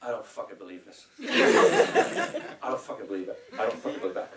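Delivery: imitating a friend's thick Scottish accent. Composer friend reacting to rejected work, in a Scottish accent. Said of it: "And in his Scottish accent".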